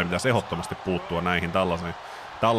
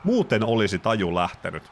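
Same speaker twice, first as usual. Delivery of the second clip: lively ringside call of the action; excited wrestling commentator; play-by-play commentary; 3 semitones higher than usual. Acted. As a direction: call the match like a ringside announcer. Live wrestling match commentary.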